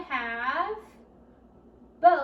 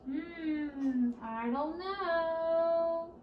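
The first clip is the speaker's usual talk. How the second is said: mock puzzled; 3 semitones higher, much slower than usual. Mock puzzled, hinting to kids.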